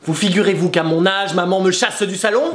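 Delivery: indignant verse recital; theatrical rage. Acted. Child chased from the salon by maman, hammed-up indignation. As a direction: declaim the outrage in measured verse. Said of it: "Je suis en rage".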